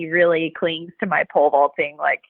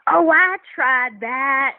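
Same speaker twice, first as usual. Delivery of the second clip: put-on slow drawn-out country accent; slow, higher country accent, imitating locals; 5 semitones higher, much slower than usual. Imitating country folk who tried pole vaulting: country accent. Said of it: "in their thick country accent".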